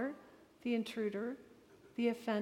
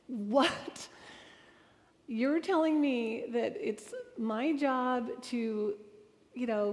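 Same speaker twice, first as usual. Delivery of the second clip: louder, slowed right down, biting off each phrase in mock outrage; retold indignant outburst; 3 dB louder than usual. To the audience, reliving rage at the sentence: indignant outburst. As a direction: replay your old fury at the book, half-acted. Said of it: "I was so incensed".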